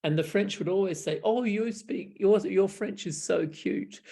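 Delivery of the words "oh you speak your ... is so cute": patronizing. Retold or imitated. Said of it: "which was very patronizing".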